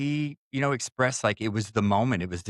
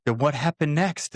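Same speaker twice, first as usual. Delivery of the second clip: higher, urgent question; pressing for more, pitched up; retold eager listener; 6 semitones higher than usual. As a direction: act out someone hooked on a story. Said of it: "she's just into the story".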